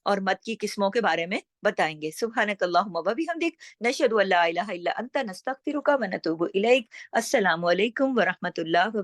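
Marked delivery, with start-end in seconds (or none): 2.1-6.9 quick, even recitation of the dua; closing prayer. Real, not acted. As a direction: rattle off the familiar closing prayer. (जल्दी-जल्दी पढ़ी गई दुआ)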